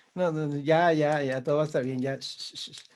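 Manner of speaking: hushing someone who is crying; soothing. Acted. Host answers what we say to someone crying, soothing. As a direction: shush them reassuringly, trailing into whispered shushes. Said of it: "qué es lo primero que le decimos".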